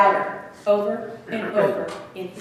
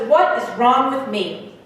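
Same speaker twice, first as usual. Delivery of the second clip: slow, exasperated plea; dragged-out, emphatic frustration, falling away; frustrated. Acted. Boy who can't hear bells, frustrated plea. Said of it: "he's frustrated".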